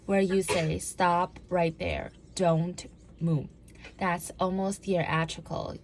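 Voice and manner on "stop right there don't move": slow, firm police command; slow, authoritative cop order; command presence. Shown as a demonstration. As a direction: stop them in their tracks with authority. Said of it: "having that command presence".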